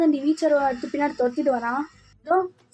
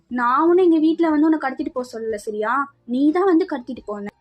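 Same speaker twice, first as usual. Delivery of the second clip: shouting; 4 dB louder than usual. Acted. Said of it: "ரொம்ப கத்திட்டு இருக்க".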